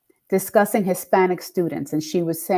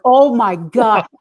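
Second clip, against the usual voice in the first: retold shock; 4 dB louder, much slower than usual. Reacts to fan's email, retold.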